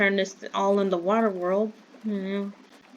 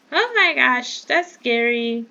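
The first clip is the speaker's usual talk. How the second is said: startled; 4 semitones higher, 4 dB louder than usual. Real, not acted. Startled by shooting.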